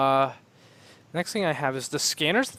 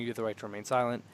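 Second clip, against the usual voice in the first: quick recitation; 4 semitones lower, 6 dB quieter, much faster than usual. Retold or imitated. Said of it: "before he can finish saying".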